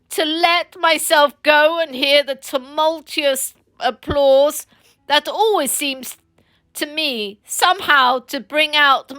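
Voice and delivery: milk the martyrdom for sympathy; Toad, self-pitying. Acted. Toad sorrowfully promises his friends to reform, hammed-up.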